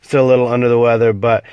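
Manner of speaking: stuffy, congested voice; talking with a blocked nose; nasal voice. Real, not acted. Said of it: "the nasally type voice that I have right now".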